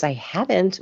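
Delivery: imitating an English girl's British accent; British accent, lightly put on. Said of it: "she said it in Brit".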